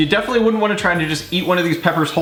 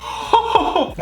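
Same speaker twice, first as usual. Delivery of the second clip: pained high laugh. Real, not acted. Laughing through pepper pain.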